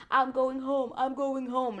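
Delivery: high, drawn-out mock wail; exaggerated high whine; mock crying. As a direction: imitate a whiny crybaby. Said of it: "over there crying, like".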